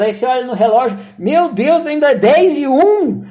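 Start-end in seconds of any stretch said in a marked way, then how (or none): 1.2-3.2 higher, louder exasperated groan; slow, despairing at the clock. Retold or imitated. To himself, checking the watch again: higher despairing groan.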